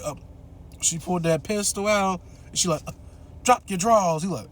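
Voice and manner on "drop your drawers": a hint of a gun-toting woman barking orders; lightly voiced order to strip; mock menacing order. Ma points a pistol at the boy, mock commanding.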